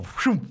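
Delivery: high, quick whoosh; imitated whoosh. Boy carried off by river, quick whoosh. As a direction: make the sound of being swept off. Imitates being swept away.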